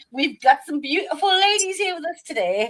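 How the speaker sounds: bad put-on British accent, very high. Greeting the audience at the show's opening, in a really bad british accent. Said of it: "That was a really crap British accent".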